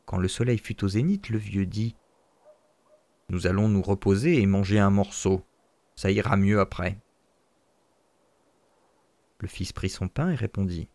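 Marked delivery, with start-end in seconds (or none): 3.3-7.0 lower, a hint of a tired old man; old father. Father to son at midday, lightly lower and tired. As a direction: settle down for a rest.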